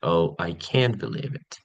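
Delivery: slow, flat, no emphasis; bored monotone. Shown as a demonstration. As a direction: demonstrate boredom with no emotional investment. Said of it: "monotone with no emphasis or emotion".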